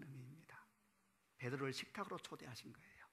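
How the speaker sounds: a whispered reverent aside; hushed whisper. Real, not acted. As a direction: drop to a whisper. Pastor's hushed point on forgiveness.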